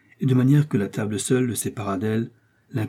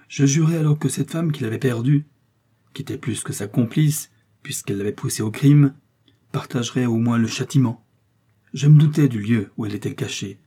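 stern executioner. Acted. The executioner of Lille tells the court his story, cold and grave. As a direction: tell it like a sentence being read.

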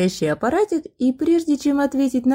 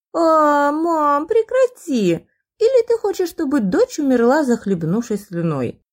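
whiny daughter; 4 semitones higher than usual. Acted. Daughter pleads, mock dramatic.

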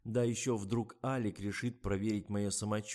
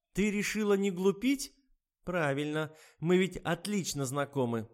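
mocking old woman; 9 semitones higher, 7 dB louder than usual. A narrator's reading. Anna Mikhailovna mocks the writer and introduces herself, high and loud. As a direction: sneer at her acting.

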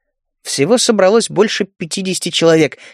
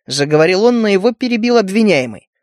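ordinary delivery

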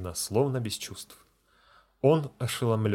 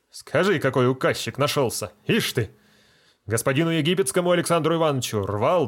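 indignant scolding; 3 semitones higher, 3 dB louder than usual. Acted. Feldsher indignant, ordering patient.

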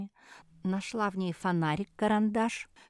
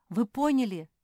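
usual speaking voice

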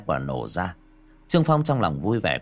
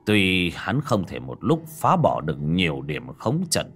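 put-on old master voice. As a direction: speak like a weary old sage. Old Taoist master explains.

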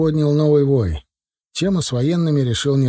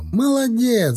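shouting; 10 semitones higher, slower than usual. A narrator's reading. Yura praises the catch of the rope, high shout. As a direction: cry out praise, pitch way up. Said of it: "закричал Юра".

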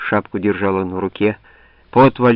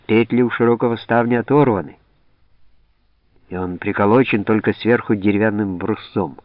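ordinary delivery, nothing marked

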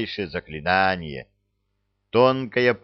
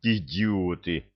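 slow, quiet, contemptuous hiss; hissed through teeth; 3 semitones lower, 3 dB quieter, slower than usual. A narrator's reading. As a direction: spit it out through clenched teeth. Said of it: "процедил юноша". (процедить сквозь зубы)

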